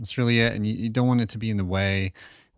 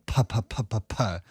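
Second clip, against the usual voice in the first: light airy puh puffs; puh breath demo. Shown as a demonstration. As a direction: puff the P's to feel the air. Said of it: "you can feel it if you go".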